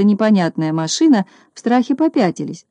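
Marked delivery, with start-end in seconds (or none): none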